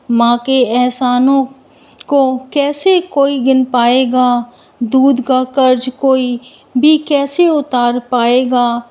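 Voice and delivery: measured, evenly pitched verse recitation; poem recitation. Acted. Devotional verse to mother before the story, poem recitation. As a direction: recite it line by line, with brief pauses between phrases.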